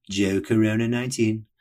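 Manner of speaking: name and number called out like a stadium announcer. Shown as a demonstration. Host giving his running catchphrase to listeners, announcer style. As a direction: hype the name up like a PA call. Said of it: "as I'll say every time I say his name".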